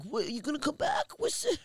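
high, put-on pestering voice; mocking nosy questioner. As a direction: imitate needy askers in a squeaky pitch. Mimics people asking about returning.

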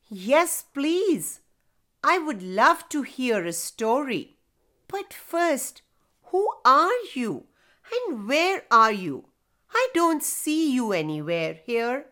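put-on little boy voice. Boy replies to voice.

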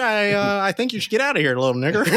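high vintage movie voice, falling at the end; mock old-timey wiseguy threat; old-time bigot. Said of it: "People used to talk like that".

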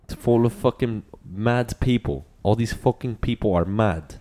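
mock British accent. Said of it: "That's an Irish accent".

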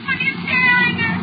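high, loud, frantic shriek; wife screams at her husband as she transforms, hysterical; hysterical cry. Acted. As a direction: scream the question at him. Wife turns on staring husband.

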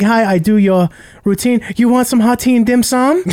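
mock Asian accent. Host mimicking a lady offering tea, mock Asian accent. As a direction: imitate an Asian woman with an exaggerated accent. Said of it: "if you were like".

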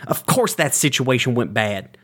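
exasperated yelling at brother; angry. Acted. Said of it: "I push him".

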